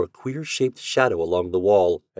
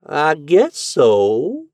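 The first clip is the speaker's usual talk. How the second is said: high, very slow grudging reply; slow reluctant landlady; 8 semitones higher, 7 dB louder, much slower than usual. A narrator's reading. Landlady answering the lodger after a long pause. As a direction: drag the answer out. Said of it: "she said at length".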